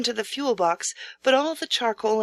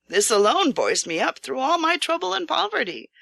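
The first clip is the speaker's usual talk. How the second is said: bright, higher cheerful line; 7 semitones higher than usual. A narrator's reading. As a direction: lift the voice with hope. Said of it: "he added cheerfully".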